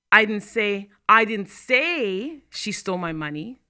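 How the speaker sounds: a slow delivery leaning on say; stress on SAY. Shown as a demonstration. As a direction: say drawn out, slow. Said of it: "means I only implied it".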